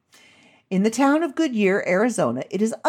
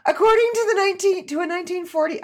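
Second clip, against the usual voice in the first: fighting back laughter; 10 semitones higher, faster than usual. Real, not acted. Tries reading while still cracking up.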